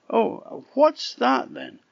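piping eager questions; curious little pig. A narrator's reading.

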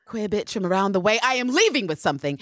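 fast, hyped take; plain; excited Denzel quote. Retold or imitated. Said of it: "Denzel clip".

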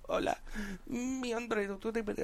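soft, feeble reply; imitated patient. Teller shows how the old patient replied to him, soft murmur. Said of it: "she'd be like".

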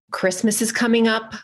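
under the weather, worn out; sick voice. Real, not acted. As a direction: talk like you're feeling awful. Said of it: "Can you tell that I'm, like, dying?".

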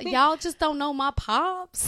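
slow mock American accent; hammed-up American drawl; bad put-on accent. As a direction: lay the borrowed accent on thick, slowly. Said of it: "your accent is so bad".

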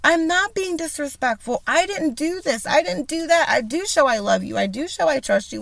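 pleading defense. Retold or imitated. Defending herself to her ex, high and pleading. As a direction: plead your case to him. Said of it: "I sat there and said".

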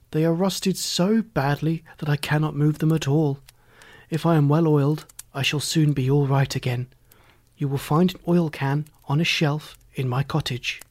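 a hint of the sad Tin Man; lightly voiced, earnest rusted man. Rusted Tin Man explaining his plight to Dorothy, lightly voiced.

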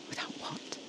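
very soft, unvoiced whisper; hushed breath-only question. A narrator's reading. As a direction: whisper the question, barely audible. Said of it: "I whispered".

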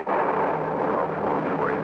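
very slow, hushed promise. Acted. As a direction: whisper it to a dying friend. Comforting a dying comrade.

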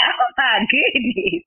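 shocked gasp. Retold or imitated. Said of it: "And I'm shocked".

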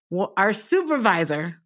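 ordinary talk

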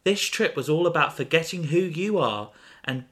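high, cold dismissive friend; Iris's voice. Acted. Voicing Iris in the story.

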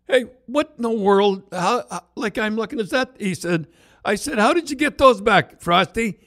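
high, startled questions; can't believe the hubcaps are back; amazed exclamation. Retold or imitated. Coach asks Frosty about the returned hubcaps, amazed and high.

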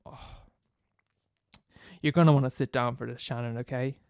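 grave hushed gossip. Acted. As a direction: break bad news gravely. Michael breaking grave news.

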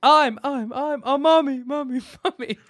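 mummy voice with a fake echo; botched echo voice. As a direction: repeat it like a bad echo. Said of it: "I just did an echo really wrong".

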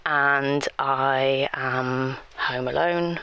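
slow, shaky whisper; scared alone at home, half whispering; freaked out. Acted. Home alone after the voice note, frightened whisper. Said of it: "it has freaked me out".

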